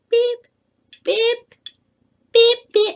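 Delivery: high, tiny beep noises; thin mock fizzle beeps; mocking little beeps. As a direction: squeak out pathetic little beeps. Mocking feeble college fireworks.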